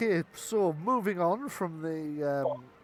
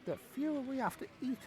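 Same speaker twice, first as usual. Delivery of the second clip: goblin carny voice; 4 semitones higher, 3 dB quieter than usual. Acted.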